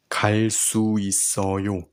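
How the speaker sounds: 갈 수 있어요 whispered quickly without voice. Shown as a demonstration. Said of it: "teacher whispers the practice phrase".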